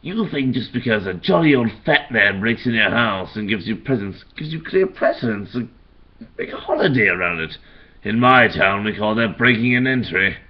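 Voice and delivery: lightly voiced Joker, sneering Christmas taunt; a hint of Mark Hamill's Joker, mocking; Joker line. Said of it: "he goes".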